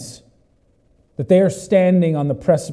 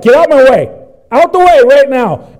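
higher, louder shoved-out command; calling out; 6 semitones higher, 8 dB louder than usual. Retold or imitated. Pushing through a crowd with someone in tow, calling out. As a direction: call over a crowd to clear a path.

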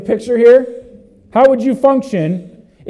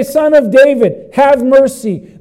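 desperate cry; 6 semitones higher, 5 dB louder than usual. Acted. Blind men begging Jesus for mercy, desperately crying out. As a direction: call out for mercy. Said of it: "It shows us their desperation".

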